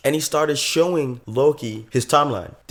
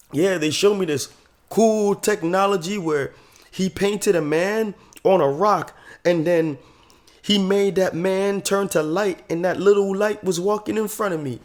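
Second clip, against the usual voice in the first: mock Southern accent; 7 semitones higher than usual. Kid insists on his wild story, mock Southern accent. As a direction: spin the yarn in a playful Southern accent. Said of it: "doing, like, a whole Southern accent".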